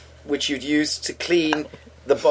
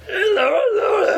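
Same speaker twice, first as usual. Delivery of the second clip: Impression of a singer; slower than usual. Retold or imitated.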